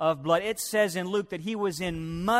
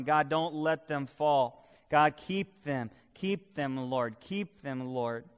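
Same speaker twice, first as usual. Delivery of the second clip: earnest, understated pleading prayer; fervent prayer. Acted. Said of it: "He begins to pray so fervently".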